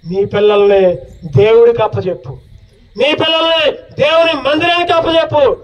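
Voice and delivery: urgent appeal to parents, each line pressed home; earnest preaching. Acted. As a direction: plead with every mother and father in the room. Preaches to the congregation.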